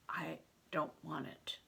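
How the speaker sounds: put-on scared boy whispering his fear; whispered. A narrator's reading. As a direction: barely breathe the words out. Frightened boy answers Bear softly.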